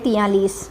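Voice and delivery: तैंतालीस said as "तियालीस"; local pronunciation. Retold or imitated. Teacher admits the local way of saying forty-three. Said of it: "हम तैंतालीस को कभी तैंतालीस नहीं पढ़ते भाई".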